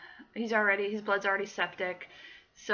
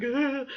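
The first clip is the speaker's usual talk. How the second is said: mock panicky "ugh", pitched up; imitated freak-out noise; 4 semitones higher, 3 dB louder than usual. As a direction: imitate someone freaking out, briefly. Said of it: "She wasn't freaking out, being like".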